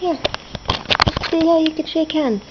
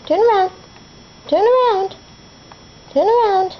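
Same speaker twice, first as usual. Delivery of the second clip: pet command; 5 semitones higher than usual. Real, not acted. Command to parrot.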